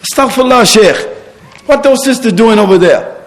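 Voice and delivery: high, disapproving fault-finder, lightly voiced; tut-tut like a scandalised complainer; mock critic. Imam mimicking a critic complaining to the sheikh, mock-disapproving. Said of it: "they criticize".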